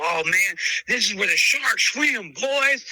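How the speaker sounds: imitating a cocky yell from the pit crowd; mock pit yell. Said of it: "they yelled in the pit".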